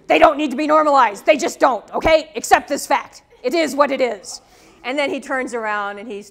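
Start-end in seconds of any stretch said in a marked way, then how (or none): 0.1-1.2 "They don't need to be normalized" said loud and fast, every word pushed; exasperated repeat. Retold or imitated. Retold professor repeats answer angrily. 1.2-4.4 "They don't need to be normalized" said loud and fast, every word pushed; exasperated repeat. Retold or imitated. Retold professor ends the argument.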